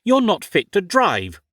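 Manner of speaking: building outrage, posh protest; indignant arguing. Acted. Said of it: "argued Ophelia".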